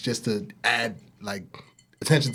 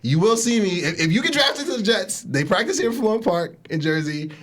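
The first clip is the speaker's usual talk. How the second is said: excited calling out; 5 semitones higher than usual. Real, not acted. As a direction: shout it out like a superfan. Calling out to Sauce.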